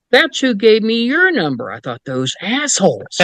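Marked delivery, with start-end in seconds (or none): 0.1-1.7 high, earnest voice of the caller; caller's matter-of-fact reply. Retold or imitated. Ghost caller explaining to the investigator, high and earnest. 2.0-3.2 slow, amused grumble through a laugh; laughing curse. Real, not acted. Investigator amused at the UFO group, laughing slowly.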